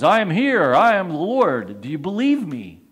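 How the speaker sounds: a hint of a booming divine voice; voice of the Lord. The Lord answers the falling man, lightly voiced and grand. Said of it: "the voice comes back".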